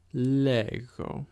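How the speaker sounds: lego with a throaty gamma g; model pronunciation. Shown as a demonstration. Teacher showing the tough gamma in lego. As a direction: lean into the rough g in lego. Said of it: "And one more time".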